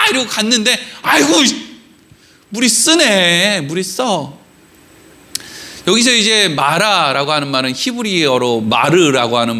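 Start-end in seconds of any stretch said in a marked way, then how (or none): 1.0-4.4 slow, drawn-out mock lament; let-down whine, dragged out; dismayed groan. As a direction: sink from excitement into disgusted disappointment. Acts out crowd tasting bitter water.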